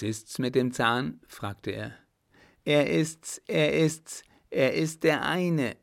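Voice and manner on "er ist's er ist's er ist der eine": excited recognition. Acted. Girl recognizes the tooth.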